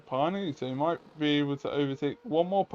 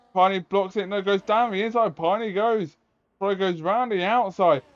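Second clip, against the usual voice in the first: motorsport commentator; 4 semitones higher than usual. Acted. Live play-by-play of overtake.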